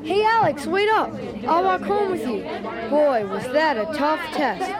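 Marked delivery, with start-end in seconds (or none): 0.0-2.4 raised-voice hail to a friend; calling out. Acted. Ken hails Alex on the walk home, calling out. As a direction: call out to catch someone up.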